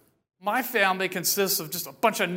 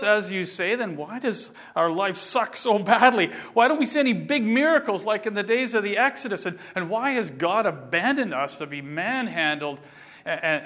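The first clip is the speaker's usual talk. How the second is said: exasperated protest. Acted. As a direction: blurt out the grievances. Gideon protests to the stranger.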